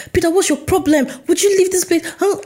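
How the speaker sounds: acted high-pitched rant at a book villain; mock-exasperated telling-off, pitched well up. Reader scolding the antagonist in the book, ranting. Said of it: "I'm literally ranting".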